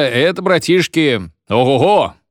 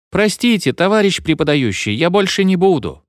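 mock sobbing plea; 8 semitones higher than usual. A narrator's reading. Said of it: "разливаясь в бурных рыданиях".

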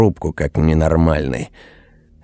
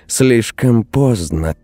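firm; 6 semitones higher, slower than usual. Acted. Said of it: "твёрдо сказала Алина".

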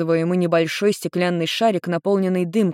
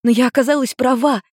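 put-on higher young girl's voice, bubbly; teen girl Ruri; 8 semitones higher, 4 dB louder than usual. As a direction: lightly voice a relieved teenage daughter. Girl voice in read story.

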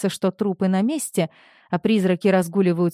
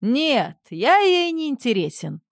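laughing denial; 6 semitones higher than usual. A narrator's reading. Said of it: "Калинин рассмеялся".

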